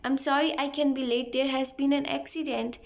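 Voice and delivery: slow, carefully spaced English; slow model phrase. Shown as a demonstration. Teacher slowly modelling a phone apology for students. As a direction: lay out each word slowly for learners. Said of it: "फ़ोन करके".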